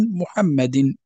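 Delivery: "محمد" ending in -din; kasra tanween. Shown as a demonstration. Teacher showing tanween on names, kasra tanween. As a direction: sound the final -in of "محمد". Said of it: "هذا هو ما يسمى بالتنوين".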